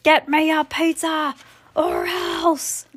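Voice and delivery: slow, whiny, stretched-out demand; milk every word like a bratty tantrum; spoiled brat demand. Acted. Ivy acting fully spoiled.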